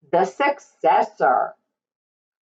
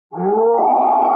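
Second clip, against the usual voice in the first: mock roar; 3 semitones higher than usual. Shown as a demonstration. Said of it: "What does a lion's roar sound like?".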